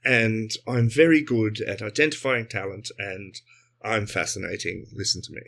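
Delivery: low classic English accent; Simon Cowell. Shown as a demonstration. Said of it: "I'm Simon Cowell".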